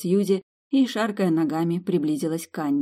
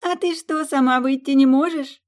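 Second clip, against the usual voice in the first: giggling tease; 9 semitones higher, 5 dB louder than usual. Acted. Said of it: "захихикала Сьюзи".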